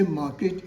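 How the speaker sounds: 'market' as mah-ket, with an e vowel; wrong pronunciation. Shown as a demonstration. Teacher shows learners the mistake, ket ending. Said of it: "it is wrong".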